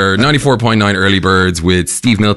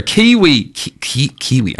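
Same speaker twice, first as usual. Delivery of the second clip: stumbling stab at a New Zealand accent; attempted Kiwi accent; 3 semitones higher, slower than usual. Shown as a demonstration. Host attempts the counsellor's nationality, halting bad Kiwi accent. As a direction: try a Kiwi accent and falter. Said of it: "I can't do a Kiwi accent".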